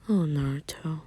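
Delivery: soft tender whisper. Acted. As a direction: breathe the name, unvoiced. Tender moment stroking hair.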